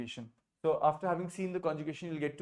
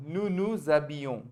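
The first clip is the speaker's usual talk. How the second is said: slow repeat. Shown as a demonstration. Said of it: "how do you say that?".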